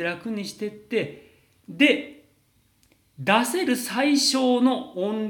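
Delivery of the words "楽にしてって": 少し柔らかく、x0.5でゆっくり「楽にしてって」; 力を抜いて静かに言う; 脱力の見本. Shown as a demonstration. (喉をゆるめる見本として穏やかに)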